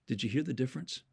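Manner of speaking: usual speaking voice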